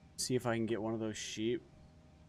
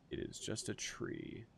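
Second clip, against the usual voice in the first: whispering; 2 semitones higher, 8 dB quieter, slower than usual. Real, not acted. Relieved, quiet after false alarm.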